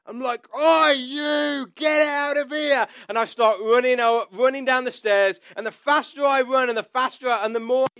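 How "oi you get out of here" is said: high-pitched shout at an intruder; yelling. Retold or imitated. Startled homeowner to intruder on the stairs, yelling. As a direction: re-enact yelling someone out of the house. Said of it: "I start yelling and shouting".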